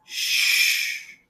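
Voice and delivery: a sharp, breathy hiss of shh; sharp hush. A narrator's reading. Giver silences Jonas with a sharp hush. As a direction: cut him off with a quick hush. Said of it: "the giver said sharply".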